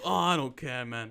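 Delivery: hammed-up not-caring quote; imitated old guy. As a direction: toss it out as his mock dismissal. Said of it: "He's like".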